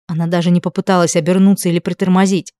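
ordinary delivery, nothing marked

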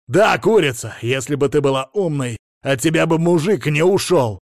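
insulting shout. A narrator's reading. Patient yelling insults at the therapist, loud. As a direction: throw the insult in her face.

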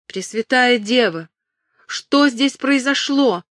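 high, slow cry of dismay; alarmed cry. A narrator's reading. Catherine calls up to the guard in horror, high and slow. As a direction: call up in horror. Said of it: "крикнула Кэтрин".

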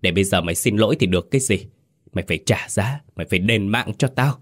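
lightly voiced vengeful ghost; a hint of a ghostly, resounding avenger; voice from hell. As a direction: accuse like an echo from the underworld. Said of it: "giọng vang vang như từ địa ngục vọng về".

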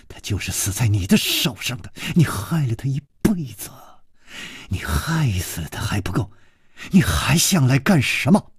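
low, hushed accusing fury; a mild, understated stern rebuke; stern anger. Acted. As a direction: accuse him, seething but contained. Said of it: "厉声又说".

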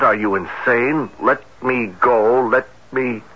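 mild hint of struggle in the dead woman's words; reading out a desperate plea. Captain quoting the victim's last cry, understated anguish. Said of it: "The words were spoken in horror and anguish".

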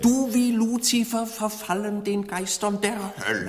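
loud, high damning cry; thundering curse. Acted. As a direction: condemn him as a heretic. Professor verdammt Ketzer. (donnernder Fluch)

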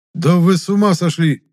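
loud indignant outburst at the bickering officials. A narrator's reading. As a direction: cut the squabble short. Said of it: "возмутился Гудков".

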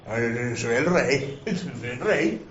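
put-on drawn-out wonder of a waking drunk; dazed drunk. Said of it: "borrachín wakes in the king's bed". (el borrachín despierta en la cama del rey, lento y aturdido)

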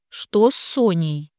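ordinary delivery

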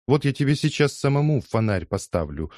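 high indignant threat; flaring up. Acted. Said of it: "вскинулась Лиза".

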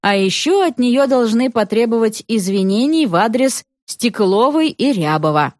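ordinary delivery, nothing marked

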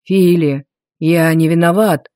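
wheezing, choking on blood; coughing up blood. Acted. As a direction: gasp it out, low, choking on blood. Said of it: "прохрипел мой папа, захлёбываясь кровью".

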